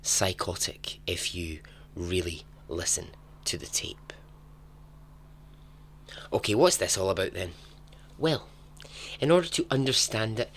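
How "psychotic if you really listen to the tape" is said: hushed dramatic reading over music; dramatic story reading. Acted. Storyteller opening the tale to listeners in a hushed dramatic read.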